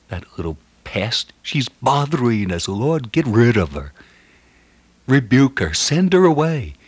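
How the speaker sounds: mock-harsh dismissal, rising in pitch and force; harsh disciples. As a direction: mimic harsh disciples fed up with a pest. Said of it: "They were quite harsh".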